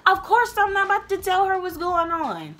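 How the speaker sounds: loud and worked up; getting loud. Real, not acted. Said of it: "Sorry, I'm getting loud".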